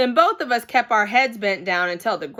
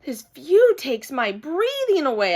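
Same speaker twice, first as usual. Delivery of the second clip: hollering; 5 semitones higher than usual. Acted. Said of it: "I hollered".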